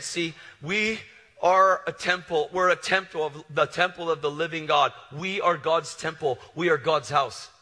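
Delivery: full-force pulpit preaching; fiery preaching. Acted. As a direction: preach it hard to the crowd.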